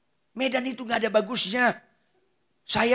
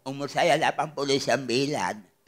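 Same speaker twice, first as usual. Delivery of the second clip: put-on lowered old person's voice; elderly Popo; 5 semitones lower, 4 dB quieter than usual. Eighty-nine-year-old telling the pastor their age, aged voice. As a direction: play someone very old stating their age.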